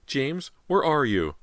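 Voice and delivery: high, slow, distraught call; sobbing. A narrator's reading. Mother repeats call for son, lightly acted sobbing.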